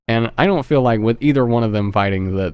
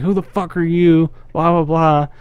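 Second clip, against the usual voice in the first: put-on scared girl; 6 semitones higher than usual. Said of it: "and she's like".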